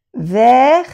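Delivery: "vers" said as vɛr, final S silent; "vers" with a mute final S. Shown as a demonstration. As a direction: say "vers" with no S at the end. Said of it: "no se pronuncia la S".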